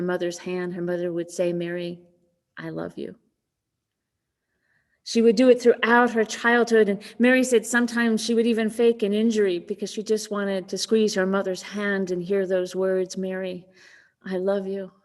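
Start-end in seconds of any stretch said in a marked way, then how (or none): 1.5-3.2 soft, lower voice, gently loving; tender reassurance. Retold or imitated. Mother comforts her child. 13.2-14.9 softly voiced mother's affection; tender reassurance. Mother's remembered loving words.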